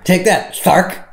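high, loud lisping boxer's taunt; Mike Tyson impression. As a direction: shout it with a lisp, mocking a boxer. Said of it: "we make fun of the way he talks".

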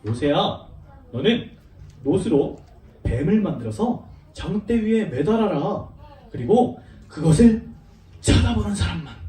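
lightly voiced God instructing Moses; God's voice. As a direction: give a solemn command, phrase by phrase. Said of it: "하나님께서 뭐라고 하셨어요?".

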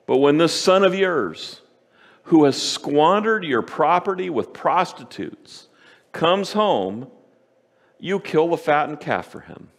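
pointed, aggrieved retelling of the son's grievance; indignant older son. Retold or imitated. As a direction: throw the complaint back at the father. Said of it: "he nails the father on this".

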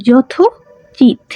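slow and drawn out. Shown as a demonstration. Teacher slowly sounds out যথোচিত for students, drawn out. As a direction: stretch যথোচিত out slowly, syllable by syllable. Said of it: "উকার উঠে দিলে".

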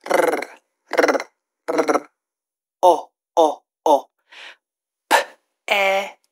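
P, E, R, O sounds repeated one by one; sounding out letters. Shown as a demonstration. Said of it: "let's sound it out".

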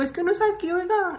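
lightly mocking her own naive self; a hint of silly innocence; innocent protest. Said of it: "bien inocente, bien mensa".

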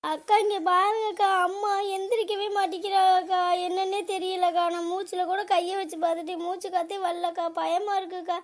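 acted frightened lament; tearful pleading. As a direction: wail lightly to the neighbour. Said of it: "ஏன் அழுது வினியமா இருக்க?".

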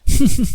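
put-on high bright girlish giggle; a happy ringing laugh of relief; tinkling laugh. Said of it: "เอื้อยหัวเราะเสียงแจ้วเจ้ย". (หัวเราะเสียงแจ้วเจ้ยอย่างมีความสุข)

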